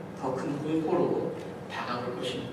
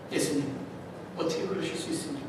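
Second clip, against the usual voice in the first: reproach; 3 semitones lower, 9 dB quieter, much faster than usual. Acted. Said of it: "화살이 예수님께 쏘아집니다".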